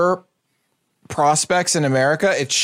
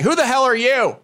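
higher-pitched, indignant challenge; retold security guard challenge; 6 semitones higher than usual. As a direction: imitate a guard confronting a stranger. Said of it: "this rando security person's like".

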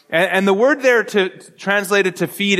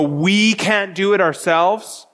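slow quote with "We" as the emphasized word; stress on WE; slower than usual. Retold or imitated. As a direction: lean on the word "We", drawn out. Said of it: "they put the emphasis on the word".

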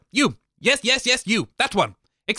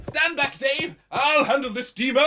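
heroic battle cry; 5 semitones higher than usual. Acted. Fog charges the intruder with mop.

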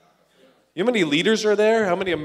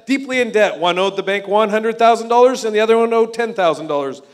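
lightly voiced Jesus, raised and earnest; Jesus telling a parable; 3 semitones higher, 5 dB louder than usual. Preacher voicing Jesus to Simeon, raised and earnest. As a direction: tell the story as Jesus would.

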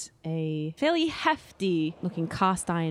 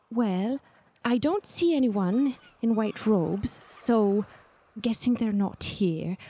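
put-on anxious young bird-woman; 3 semitones higher than usual. Agnar explains she is meeting someone unknown, nervous character voice. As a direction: ramble on quickly as an unsure young character.

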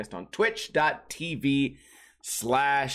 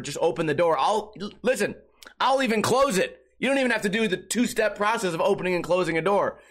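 retold desperate yell; 6 semitones higher than usual. Dreamer yelling at party guests to open the door, mock yell. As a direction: replay the dream plea, pushing up in pitch. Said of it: "I'm losing my voice screaming".

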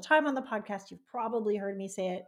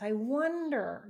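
slow wondering; 2 semitones higher, much slower than usual. Shown as a demonstration. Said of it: "that Carrie's inviting".

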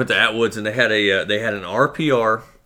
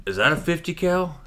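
high-pitched clueless customer question; feigned ignorance; 8 semitones higher than usual. Retold or imitated. Customer trolling the gun shop clerk, faux-naive. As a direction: play dumb, asking innocently.

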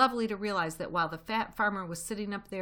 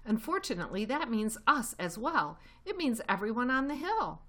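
raised, higher-pitched angry complaint; furious; 5 semitones higher, 4 dB louder than usual. A narrator's reading. Badger warns Fox everyone will suffer, angrily. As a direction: press the blame home forcefully. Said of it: "said Badger furiously".

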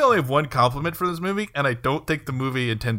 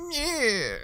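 bad acting; 9 semitones higher, 4 dB quieter than usual. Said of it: "could be replaced with".

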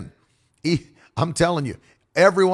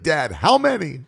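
put-on child asking; 7 semitones higher, 4 dB louder than usual. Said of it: "He'll be like".

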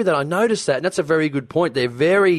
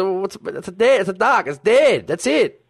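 lightly mocked, higher-pitched blunt reply; imitated interviewee; 7 semitones higher than usual. Man answering about a dead duck, lightly imitated bafflement. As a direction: retell his bafflement in a raised voice. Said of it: "And he goes".

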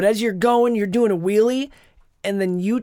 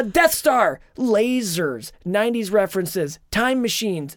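hyped-up trailer read, pitched up; podcast announcer; 2 semitones higher than usual. Acted. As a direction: sell the episode like a promo. Launches into show intro.

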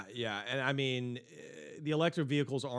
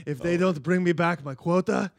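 put-on hack African accent; 4 dB louder than usual. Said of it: "hack African accent".

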